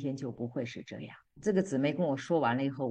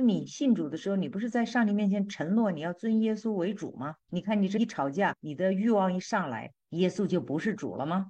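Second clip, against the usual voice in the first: higher and louder, scolding her excuses; chiding rebuke; 5 semitones higher, 3 dB louder than usual. Retold or imitated. God confronting a complaining wife, higher and loud chiding. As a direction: press her hard, leave no excuse standing.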